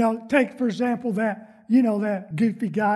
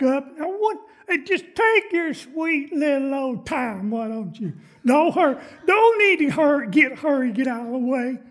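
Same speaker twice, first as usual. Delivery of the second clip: impatient driver; 3 semitones higher than usual. Acted.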